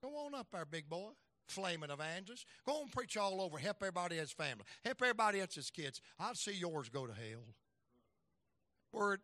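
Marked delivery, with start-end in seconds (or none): 0.0-7.5 mild mock taunt from the devil; lightly voiced devil jeering at the preacher. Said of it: "And I'd hear this voice".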